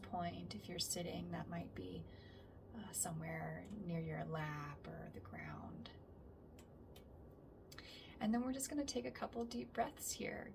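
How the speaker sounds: calm grounding exercise. Acted. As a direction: gently guide them to soften their gaze. Leads a soft-gaze grounding exercise.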